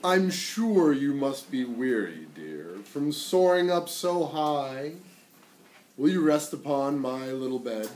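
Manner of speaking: slow, sweet coaxing spider; the spider luring the fly to rest; sly spider. Acted.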